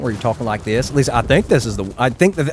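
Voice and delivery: light Southern country accent. Shown as a demonstration. Streamer shows chat what he takes it to mean, country accent. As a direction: try on a casual country twang. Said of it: "I can do the country accent".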